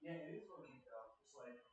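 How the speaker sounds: distant, off-mic voice; calling from the next room; from another room. Real, not acted. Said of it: "You can hear me in the other room".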